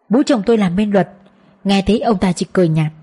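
ordinary delivery, nothing marked

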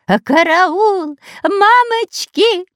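very high, slow squeal; wild shriek of terror. A narrator's reading. The cowardly spy squeals wildly in terror. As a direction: squeal in panic. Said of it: "Диким от ужаса голосом визжал".

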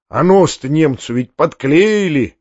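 ordinary delivery

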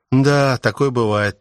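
heavy sigh. Acted. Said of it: "тяжко вздохнув".

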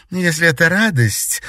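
a cool jab at his show of joy; cold remark. A narrator's reading. Countess to Alexander, coldly ironic. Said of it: "холодно произнесла графиня".

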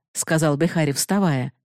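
ordinary delivery, nothing marked

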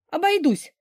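high whiny whimper; embarrassed nanny whimpers a refusal, high and whiny. A narrator's reading. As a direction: whimper it, eyes down in shame. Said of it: "хныкнула".

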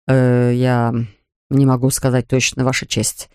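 hesitant, caught-out lawyer; stammering mumble. Acted. Lawyer falters before the judge, mumbling. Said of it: "пробормотал он, запинаясь".

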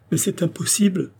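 high-pitched, disbelieving protest; incredulous. A narrator's reading. Andrée refusing to believe his love, incredulous.

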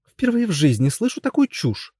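high, peevish princess line; capriciously dismissive Brunhilda. A narrator's reading. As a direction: scoff like a spoiled princess. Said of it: "капризно сказала она".

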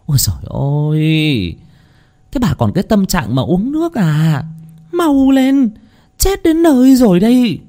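high-pitched, hurried neighbor's alarm; high, agitated old-neighbor voice raising the alarm; frantic urgency. A narrator's reading. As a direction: cry out in urgent exasperation, stretching the opening wail. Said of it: "Tiếng của bà Tư hối hả".

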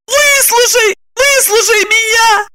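high pleading cry; desperate plea. A narrator's reading. Lipochka begging Roman to hear her. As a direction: beg him to listen.

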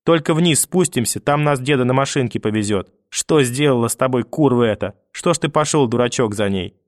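lightly voiced old woman, soothing and scolding; grandmother. Grandmother reassures the boy, lightly voiced. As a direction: soothe the boy, curse the mother.

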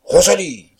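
loud, angry call; irritated shout. A narrator's reading. Irritated master calling his cook, a loud shout. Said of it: "cria de nouveau le maître, de plus en plus irrité".

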